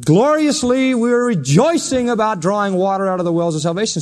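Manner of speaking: lifted, mildly exultant proclamation; rejoicing. Retold or imitated. Marching worshippers proclaiming at the temple, mildly rejoicing. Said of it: "they come marching in and they're saying".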